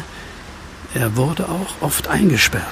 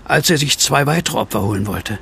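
reading aloud; 3 semitones higher than usual. Acted. Reads newspaper headline aloud.

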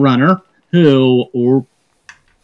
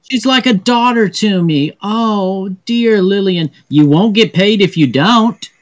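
higher-pitched princess lamenting Lillian; distressed princess; 4 semitones higher than usual. Acted. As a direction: plead like a princess for a dear assistant. Plays the princess pleading for Lillian.

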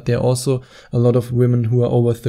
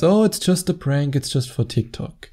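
breezy dismissal; 2 semitones higher than usual. Retold or imitated. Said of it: "she says".

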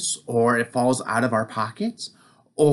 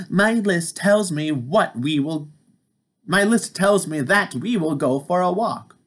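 higher, eager Toad voice; bright little Toad showing off his list; proud toad character, pitched up; 5 semitones higher than usual. Acted. Toad's voice in read-aloud.

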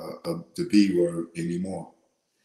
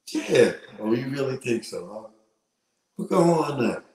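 mock taunting challenge; 3 semitones higher than usual. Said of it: "Like, just".

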